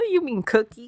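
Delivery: high, laughing mock confusion; laughing mock question. Friend mocks British words with a high laughing question. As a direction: squeak it out through a laugh.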